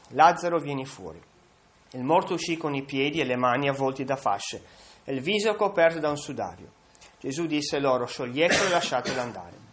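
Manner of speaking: measured, solemn reading of the Gospel; scripture reading. Acted. Preacher reads the Gospel passage to the congregation, solemn reading. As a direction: read the passage steadily to the congregation.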